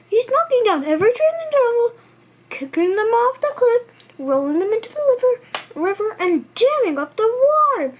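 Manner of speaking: high fast giraffe; hurried giraffe. A narrator's reading. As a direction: rattle it off in alarm. Giraffe voiced in story.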